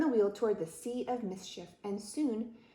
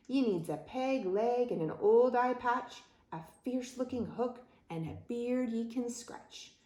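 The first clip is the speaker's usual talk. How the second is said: raised, rhythmic pirate voice; pirate captain declaring; 4 semitones higher than usual. Acted. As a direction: lay down the rules like a pirate captain. Pirate captain lists his demands.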